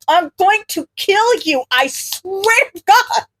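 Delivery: mock threat. A narrator's reading. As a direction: threaten a friend playfully. Mock threat to teasing friend.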